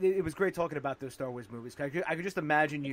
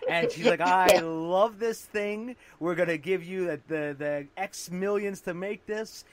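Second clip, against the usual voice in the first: louder, slow, gushing studio boss; enthusiastic exec; 6 dB louder, slower than usual. Retold or imitated. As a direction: sell it like a thrilled executive. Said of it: "she says".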